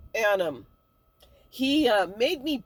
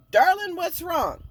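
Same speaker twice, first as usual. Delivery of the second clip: higher-pitched, pointed mock concern; pissed-off undertone; 6 semitones higher, 3 dB louder than usual. Mother on the phone to hungover daughter, annoyed undertone. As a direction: imitate a mother hiding her annoyance. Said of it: "I'm pissed off at you".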